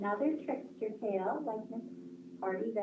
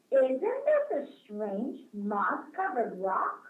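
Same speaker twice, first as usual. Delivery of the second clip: storybook reading. A narrator's reading. Reads a story to children.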